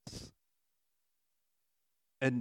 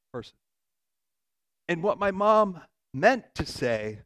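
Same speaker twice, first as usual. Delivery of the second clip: ordinary delivery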